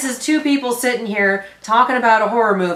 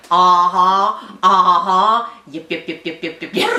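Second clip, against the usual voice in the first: Yip Yip alien; 3 semitones lower, slower than usual. Pretend. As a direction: chirp it like a Sesame Street alien. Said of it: "I feel like a yip yip".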